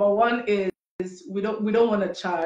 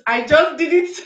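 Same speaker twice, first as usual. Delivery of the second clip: laughing, higher and louder; 5 semitones higher, 5 dB louder than usual. Real, not acted. Host jokes with cohost about the slogan, laughing. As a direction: laugh while saying it.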